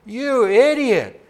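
loud, high acted outburst of an angry manager; furious shout. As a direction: shout it like an exasperated baseball manager. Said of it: "Furiously, he ran to the dugout, ... and shouted".

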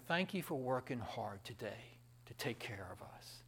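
whispered grateful thanks; tender whisper. Pretend. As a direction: breathe it softly to your husband. Wife thanking husband, whispered.

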